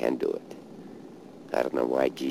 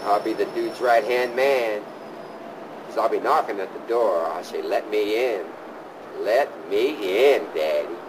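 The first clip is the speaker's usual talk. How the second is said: higher, playful knock-on-the-door plea; raised hopeful mock plea; imagined plea; 7 semitones higher than usual. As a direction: beg to be let in.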